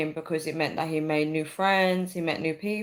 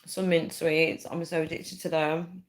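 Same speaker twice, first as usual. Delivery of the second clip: chewing while talking. Real, not acted. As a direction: mouth full of sweets. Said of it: "I'm chewing".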